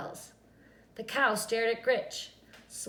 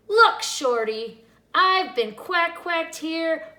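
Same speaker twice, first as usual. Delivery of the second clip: exasperated witch; 5 semitones higher, 8 dB louder than usual. A narrator's reading. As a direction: vent every frustration at once. Witch rants at farmer.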